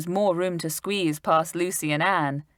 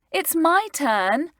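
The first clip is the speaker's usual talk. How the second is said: put-on higher, slow eager girl; excited cry; 11 semitones higher, slower than usual. A narrator's reading. Lucy claiming her turn at the window, excited. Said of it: "cried out Lucy, feeling excited".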